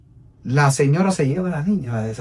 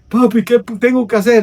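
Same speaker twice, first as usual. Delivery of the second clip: imitated daughter; 8 semitones higher, 4 dB louder than usual. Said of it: "Y ella bajó llorando".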